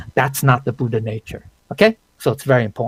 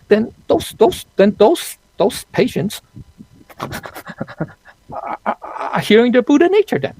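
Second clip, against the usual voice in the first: incredulous rise; 10 semitones higher than usual. Real, not acted. Mocking absurd conclusion, laughing.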